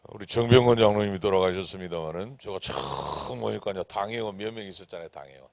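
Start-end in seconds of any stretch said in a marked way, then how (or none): none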